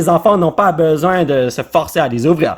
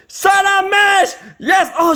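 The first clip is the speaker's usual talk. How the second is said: excited cheer; 12 semitones higher, much slower than usual. Real, not acted. Pulls a Charmander card.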